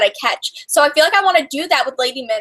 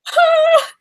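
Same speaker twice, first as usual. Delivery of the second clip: short, high-pitched mock cry; high wordless cry, acted out; mock wail; 4 dB louder than usual. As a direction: re-enact crying out at bad news. Acting out collapse at bad news.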